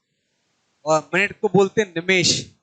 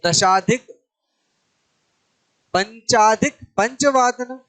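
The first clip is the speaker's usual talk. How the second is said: slow demo; slower than usual. Shown as a demonstration. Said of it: "teacher models time phrases".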